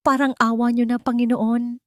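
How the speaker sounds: a frantic plea lifted up high; desperate prayer. Acted. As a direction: beg heaven in a panic. Desperate prayer over dead engine.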